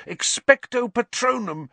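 high, loud last effort; desperate cry. A narrator's reading. Harry blinded by fog, desperate cry. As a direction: throw everything into it.

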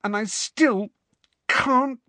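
angry. A narrator's reading. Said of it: "she added angrily".

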